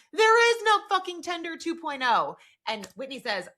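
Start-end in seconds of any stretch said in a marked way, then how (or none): 0.1-2.3 high, drawn-out mock yell; retold scream. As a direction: yell it out slowly, pitched well up, as a retold outburst. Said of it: "Jonah then screams".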